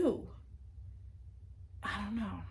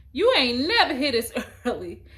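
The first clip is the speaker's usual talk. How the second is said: teasing teacher; 4 semitones higher, 12 dB louder than usual. Retold or imitated.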